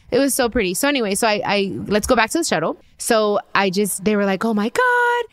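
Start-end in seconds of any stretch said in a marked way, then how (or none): 4.4-5.2 very high mock squeal; high-pitched retold shriek of delight; imitated excited scream. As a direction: squeal it like a thrilled stranger, without full volume. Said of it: "started screaming".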